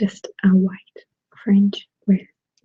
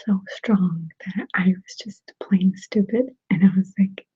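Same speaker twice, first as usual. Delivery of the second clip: ASMR whisper. Real, not acted. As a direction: whisper close to the mic.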